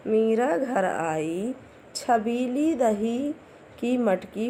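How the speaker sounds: slow, word by word sentence reading; slow reading aloud. Shown as a demonstration. Teacher reading the story sentences to class one, slow and clear. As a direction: read the little story slowly for young readers. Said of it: "अब आइए हम इनके वाक्यों को पढ़ते हैं।".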